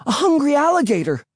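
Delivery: very high, stretched shout to scare; shouted alarm. A narrator's reading. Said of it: "I shouted".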